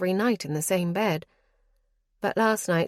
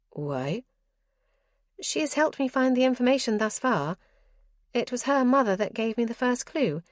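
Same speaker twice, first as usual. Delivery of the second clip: put-on a lightly raised, chatty young lady; lightly voiced noblewoman, eager then dismissive; Clarissa's voice; 3 semitones higher than usual. Clarissa's voice in dialogue.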